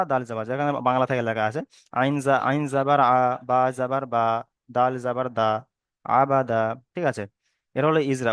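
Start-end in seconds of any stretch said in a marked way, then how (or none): 1.9-6.6 spelling recitation. Shown as a demonstration. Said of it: "ওটা হলো বানান".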